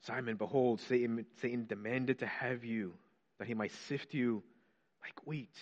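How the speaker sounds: hushed quote fading to whisper. Acted. Preacher repeating Jesus's warning to Simon, fading to a whisper. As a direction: let it sink to a whisper on like wheat.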